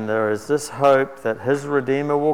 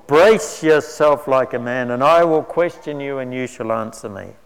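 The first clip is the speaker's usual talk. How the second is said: booming voice; 4 dB louder than usual. Acted. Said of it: "The Lord spoke to Job out of the storm".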